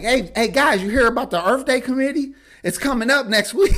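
eager bridge-builder. Retold or imitated. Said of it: "then I try to bridge the gap".

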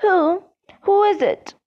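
high, insistent questioning; mildly disbelieving. A narrator's reading. Official calling to wizard in trees, mildly disbelieving. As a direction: demand an answer, pitched well up. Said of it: "sounding highly disbelieving".

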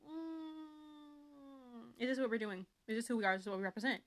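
mildly exasperated eye-roll questioning; questioning what this story stands for, dryly; skeptical judging. Retold or imitated. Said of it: "I'm just kinda like".

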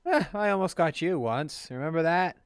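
lightly put-on British voice; a hint of cocky British rogue; British accent. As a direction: reminisce in a mild British accent. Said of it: "It'll be British".

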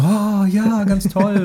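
high, gushing mock admiration; mock gushing crowd, pitched high; mock fawning. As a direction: fake delight of a crowd. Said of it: "Und alle so".

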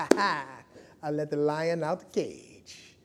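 slow, softly self-satisfied boast with a chuckle; mock smug swagger; feeling himself. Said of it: "I'm feeling myself sometimes".

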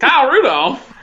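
put-on Southern twang; Southern accent. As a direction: call the name out in a hammy Southern accent. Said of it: "say it in a Southern accent".

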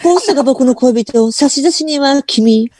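too-clear Tahara impression. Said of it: "しっかり喋りすぎ".

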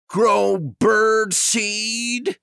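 pirate appalled at becoming a farmer; groaned in disgust. Acted. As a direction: stretch it out like the idea sickens you. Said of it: "he groaned in disgust".

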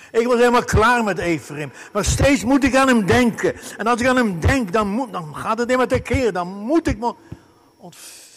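loud and high, heart stirred up inside; God's anguished voice. Acted. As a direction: voice God bursting with compassion. Voices God's inner turmoil. (luid en hoog, Gods bewogen stem)

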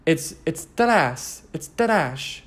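trash as a mock-European ta-RASH; halting, rolled mock-foreign trash; attempted foreign accent. Shown as a demonstration. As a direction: fumble for a French or Italian accent on trash. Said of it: "Is that Italian?".

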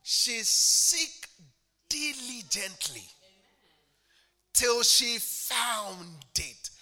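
drawn-out, loud climax; slow preaching shout. Real, not acted. Preacher exulting over the woman finding the coin, loud. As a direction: stretch it out and land hard.

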